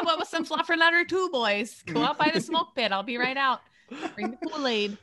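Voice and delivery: lightly voiced mom calling to the boys; playful mom. Mom answering the boys at her door, playfully motherly. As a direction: lightly play a mom shouting out dinner plans. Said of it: "seen me as a mom".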